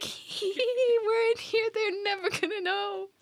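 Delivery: high, giddy sneaky cackle-talk; gleeful high-pitched whisper-shout of men in hiding; giggling hidden soldiers. Acted. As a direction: squeal it like you can barely contain the secret. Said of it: "inside of a wooden horse giggling".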